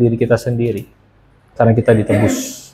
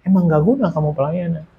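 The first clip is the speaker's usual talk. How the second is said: softly retold inner voice, calm and unreproachful; gentle, peaceful voice; 5 dB quieter than usual. Holy Spirit speaking inside a weeping believer, gently and peacefully. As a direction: deliver blunt words softly and peacefully. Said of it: "Tapi ada damai gitu".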